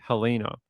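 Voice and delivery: Helena as huh-LEE-nuh; Australian pronunciation. Shown as a demonstration. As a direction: stress the long LEE in Helena. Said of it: "Everyone in Australia would call".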